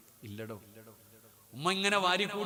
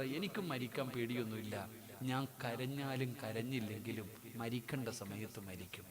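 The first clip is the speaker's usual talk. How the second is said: gentle, softer reply; 5 semitones lower, 6 dB quieter than usual. A narrator's reading. Dying Ustad answers the doctor, softly. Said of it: "ഉസ്താദ് പതിയ സ്വരത്തിൽ പറഞ്ഞു".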